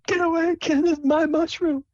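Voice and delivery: very high falsetto scolding; feisty Sable. Acted. Sable defends her mushroom from a kid, feisty high voice. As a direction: shoo the kid off in a squeaky voice. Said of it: "and she kicks him".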